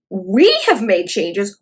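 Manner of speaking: "We" stretched slowly in mock quotation; stress on WE. Throwing the host's words back, drawn-out "We". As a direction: repeat it slowly, dwelling on "We". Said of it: "One thing she does say is the word".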